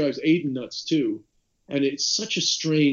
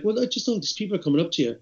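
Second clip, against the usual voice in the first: quoting the woman; 6 semitones higher, 4 dB louder, faster than usual. Retold or imitated. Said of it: "And she was like".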